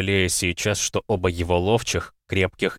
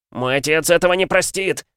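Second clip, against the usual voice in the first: high, loud desperate wail; 9 semitones higher, 4 dB louder than usual. A narrator's reading. Thrown-out guest wailing at the lord, desperate wail. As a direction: wail it out in despair. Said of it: "В отчаянии взвыл Дигвилл".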